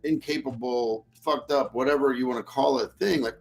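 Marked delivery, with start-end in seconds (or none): 0.0-1.7 soft, slow pleading mock self-pity. Speaker mocking an apology that begs for pity, soft and slow. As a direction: whine it like a beggar asking for pity. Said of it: "I'm begging you to pity me".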